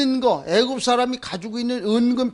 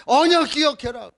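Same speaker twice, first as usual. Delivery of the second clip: emphatic reminder; 4 semitones higher than usual. Acted. Pastor urging the congregation, emphatic and raised. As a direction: proclaim it firmly to the whole room. Repeated covenant reminder, second louder.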